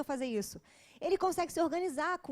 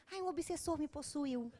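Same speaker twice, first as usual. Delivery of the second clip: mock excuse; 6 dB quieter than usual. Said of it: "cara de pau ainda e fala assim".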